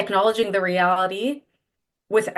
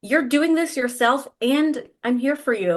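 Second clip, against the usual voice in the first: tender reassurance; 4 semitones higher than usual. Retold or imitated. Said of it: "she's saying".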